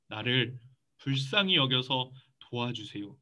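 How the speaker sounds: understated acted begging; imitated plea. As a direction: plead slowly and quietly for mercy. Acted plea of blind beggar.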